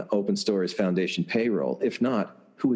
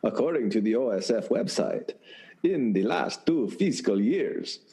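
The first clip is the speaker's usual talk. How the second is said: Count voice. Acted. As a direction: read it like the Sesame Street Count. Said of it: "it sounds more like Count from Sesame Street".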